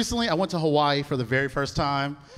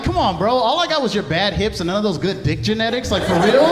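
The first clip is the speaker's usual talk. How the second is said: mock complaint; 3 semitones higher, 5 dB louder than usual. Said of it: "I'm like".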